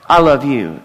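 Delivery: a quick, throwaway "I love you" with a laugh; wife's hurried reply. Retold or imitated. Pastor imitating his wife's hurried goodbye, quick and laughing. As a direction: toss it off while running out the door. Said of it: "it was different than that".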